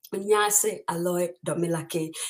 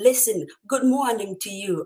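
failed, attempted Jamaican patois accent; 2 semitones higher, 3 dB louder than usual. A host greets viewers in Jamaica before the next storyteller, in an attempted Jamaican patois accent. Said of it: "i'm trying to get that accent the pato accent".

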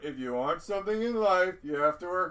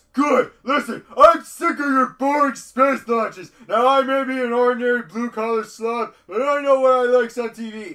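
loud, pitched-up cartoon-style shouting; 6 semitones higher, 7 dB louder than usual. Quoting a favorite scene where the character calls NASA: imitating Homer Simpson shouting. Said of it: "a lot of shouting in this segment".

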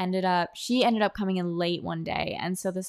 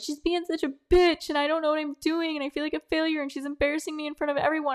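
put-on crying, high and tearful; 9 semitones higher than usual. Retelling venting to a woman in the workplace bathroom: imitating herself crying. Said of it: "And I just start crying and I'm like".

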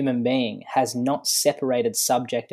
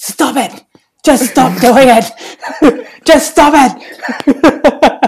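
very high, very loud, shrill, escalating yell; 12 semitones higher, 13 dB louder than usual. Retelling what a man told a woman at his desk, imitating him yelling ever louder. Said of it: "he's getting louder and louder and louder".

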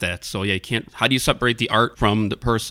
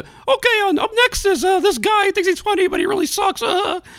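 put-on drunk cartoon mouse voice, slurred and squeaky; 5 dB louder than usual. Retelling how a drunk open mic host introduced comics: imitating drunk Mickey Mouse voice. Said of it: "did the whole thing as Mickey Mouse".

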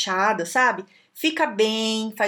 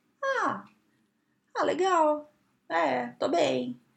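play-acted listless, unwilling, lazy, bored drawl, very slow; 5 semitones higher, 3 dB quieter than usual. Acting out someone sprawled in a chair answering a question: mock-bored, unwilling reply. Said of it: "todo esparramado na cadeira, largado, e fala assim ... Sabe aquela má vontade?".

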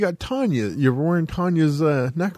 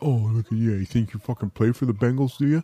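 mock, scornful, teasing, ribbing tone; 4 semitones lower than usual. Retelling teasing a shipping clerk about wearing a team jersey: mocking a coworker. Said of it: "I make fun of my shipping clerk".

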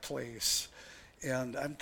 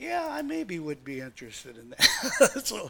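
casual, offhand, swooping sing-song, hiding excitement; 3 semitones higher, 3 dB louder than usual. Retelling answering an offer of a road grader, retelling playing it cool. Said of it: "I tried not to act too excited about it".

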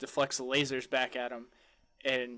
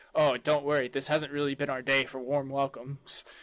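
sassy, attitude-filled delivery. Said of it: "So sassy".

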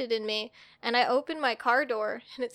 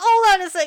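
very loud, high, tearful crying voice; 7 semitones higher, 13 dB louder than usual. Retelling breaking down in a woman's office, retelling crying. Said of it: "and I start crying".

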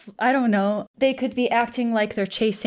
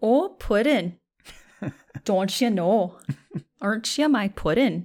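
put-on over-the-top Midwestern accent, laid on thick. Attempting to imitate a woman's accent, exaggerated Midwestern accent. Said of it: "that was strictly Midwestern".

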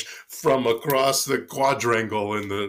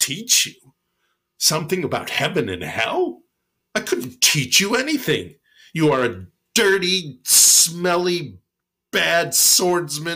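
withering, contemptuous, disdainful tone, pitched up; 6 semitones higher, 3 dB louder than usual. Storyteller voices a monk answering a mighty warrior, mock-disdainful reply. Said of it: "replied with the utmost disdain".

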